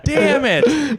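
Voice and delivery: high, pained mock cry of frustration; hammed-up exasperated yelp; mock exasperation. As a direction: curse it like a cheated afterlife arrival. Acting out dismay at the afterlife.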